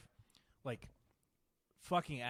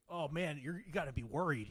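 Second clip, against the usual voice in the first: quieter, mocking "You gotta be worried." as an imagined critic; mock worried quote; 5 dB quieter than usual. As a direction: scoff out "gotta be worried" like a fake warning. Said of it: "it's like".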